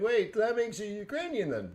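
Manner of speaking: high-pitched incredulous question; retold confused challenge; mock puzzlement. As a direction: imitate baffled disbelief, pitch right up.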